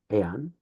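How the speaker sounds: Aeon as ay-on, not een; two vowels. Shown as a demonstration. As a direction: keep both vowels in Aeon. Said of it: "treated as aeon instead of een".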